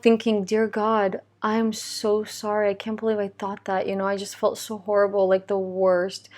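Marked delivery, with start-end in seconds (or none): 0.4-3.9 soft, understated apology; lightly voiced remorseful prayer, hushed down; retold sincerity. Mom talking to God after angry thought, soft retold sincerity. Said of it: "with so much sincerity".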